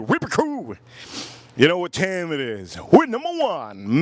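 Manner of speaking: hype shout-out. Real, not acted. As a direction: pump up the fans. Hypes his viewers' crew.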